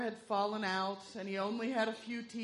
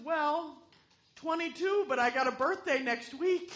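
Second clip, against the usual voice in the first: put-on weak old man voice; 6 semitones higher, 4 dB louder than usual. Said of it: "the wrinkled little man".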